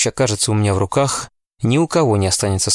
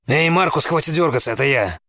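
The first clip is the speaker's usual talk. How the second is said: lightly voiced friendly man; 7 semitones higher than usual. A narrator's reading. Zeb calms a startled friend.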